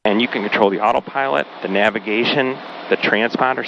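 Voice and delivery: talking through bumpy air; bumpy flight voice. Real, not acted. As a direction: voice jolted by turbulence. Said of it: "sorry about the bumps".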